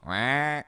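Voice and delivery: nasal-free quack noise, drawn out; imitated duck call. Shown as a demonstration. Showing a friend a duck call, imitated quack. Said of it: "when you go".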